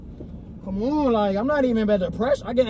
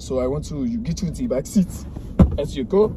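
fake Italian accent; 4 semitones lower than usual. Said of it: "a fake Italian accent?".

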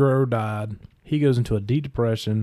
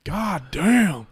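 high drawn-out mock dismay; dismayed curse; 6 semitones higher than usual. Opponent reacting to the broken ankle, high mock dismay. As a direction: let the curse stretch in disbelief. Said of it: "He's like".

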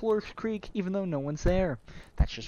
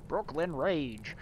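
put-on slow, drawn-out Brooklyn accent; put-on Brooklyn catchphrase; 3 dB quieter, much slower than usual. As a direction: stretch it out in mock Brooklyn. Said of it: "doing, like, a Brooklyn accent".

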